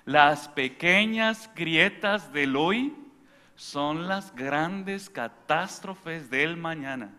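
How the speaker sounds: slow, weighty sermon delivery; slow preaching refrain. Acted. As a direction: drive each word home slowly. Refrain repeated over music.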